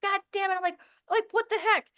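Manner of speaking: high, exasperated mock swearing; sailor-mouth cursing. Admitting she swears like a sailor, high mock cursing. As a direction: swear like a sailor, half joking. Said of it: "I might sound like a sailor".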